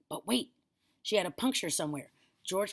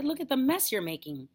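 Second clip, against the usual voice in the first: put-on higher-pitched boyish complaint; protesting boy; 8 semitones higher, 4 dB louder than usual. A narrator's reading. Boy scolding grandma over the mess, high protest. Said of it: "George said".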